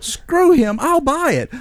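high-pitched, eager retold offer; retold brash bravado. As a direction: jump in boldly, pitched well up.

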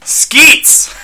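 high cracking yell, close to laughter; over-the-top shouted call. Acted. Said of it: "Michael yelled to his robot companion".

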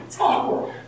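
awkward whispered, breathless and soft. Shown as a demonstration. Preacher repeating the point, soft whisper.

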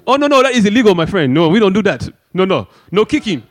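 a hint of a fussy referee; prissy rule-keeper voice. Rival lectures rules, foreign voice.

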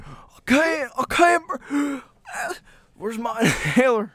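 high, loud, gasping cry of panic; mock panic. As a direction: play the wheezing kid hunting for his inhaler. Acting out a panicked asthmatic.

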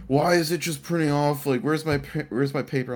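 mock freak-out. Worker retells coworker finding endless printouts, mock freaking out. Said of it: "she starts freaking out".

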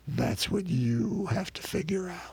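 lightly voiced old cowboy, measured; rough cowboy. Cowboy leaves Billy to figure it out, rough cowboy voice. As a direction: answer as a knowing old cowhand. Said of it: "in his rough cowboy voice".

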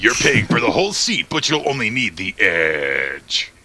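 ad announcer. Pretend. Spoof ad tagline after promo.

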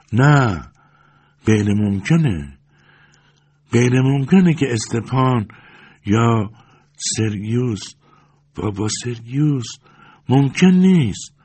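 put-on old woman in shaky disbelief, rising high on the last words; stunned disbelief. A narrator's reading. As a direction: refuse to believe who stands before her. Pashenka stunned by recognition.

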